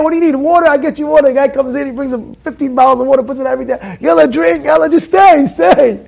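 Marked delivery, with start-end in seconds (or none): 0.0-1.3 higher, keen offer of water; eager host. Retold or imitated. The air conditioning man offering water, eager and higher. 4.0-6.0 louder, higher yalla, pushing him to stay; urging shout. Retold or imitated. Host urging the learner to stay, a loud higher yalla.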